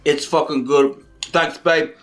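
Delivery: low, slow Aussie bloke; Australian accent. Pretend. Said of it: "I am Jack, the straight Australian guy".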